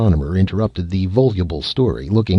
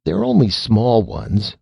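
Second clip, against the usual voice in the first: quavering; 5 semitones higher than usual. Acted. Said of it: "quavered Red".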